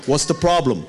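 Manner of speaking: lightly imitated pastor, blunt and matter-of-fact; Pastor Sam's way of talking. Youth pastor brushing off a scared kid, lightly imitated. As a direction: toss it off like the old youth pastor. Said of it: "He talks like that".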